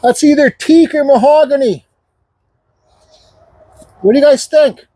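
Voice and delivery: muffled behind a dust mask; talking through a dust mask. Real, not acted. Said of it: "my dust mask".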